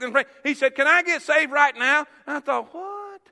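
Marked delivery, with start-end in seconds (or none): 0.7-2.1 direct, raised question; matter-of-fact request. Retold or imitated. Young man asking the preacher, matter-of-fact request. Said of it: "It was just that matter of fact". 2.7-3.2 high, hushed "what"; stunned disbelief. Retold or imitated. Preacher stunned by the young man's request, stunned disbelief.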